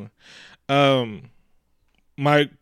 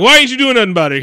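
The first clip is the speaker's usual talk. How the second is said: indignant challenge; 8 semitones higher, 6 dB louder, much faster than usual. Retold or imitated. Retold challenge to Frenchie.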